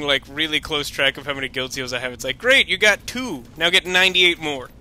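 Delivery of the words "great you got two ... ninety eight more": mock congratulation. Mocking the game's seal counter.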